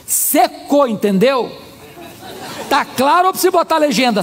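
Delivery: mock-cross, isolated emphatic words. Angry woman telling pastor her love dried up, cross. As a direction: spell it out with retold exasperation. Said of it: "olhou brava para mim".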